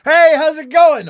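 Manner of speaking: high and bright, far too casual; cheery casual greeting. Retold or imitated. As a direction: play it breezy, as if nothing's odd. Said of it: "And then I come".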